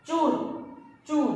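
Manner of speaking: चूर with the ऊ stressed and held long. Shown as a demonstration. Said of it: "दोनों जोर दिया जाता है".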